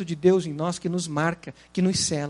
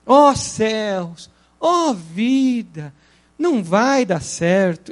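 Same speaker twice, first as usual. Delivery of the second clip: gloomy Hard; 2 semitones lower, much slower than usual. Retold or imitated. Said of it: "daquele Lip e o Hard".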